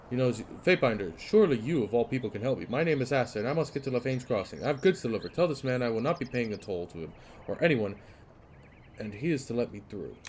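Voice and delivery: lightly voiced fussy merchant; a touch of a fussy trader; pleading merchant. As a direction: appeal to the Fatebinder for help. Voices merchant Aster reading dialogue.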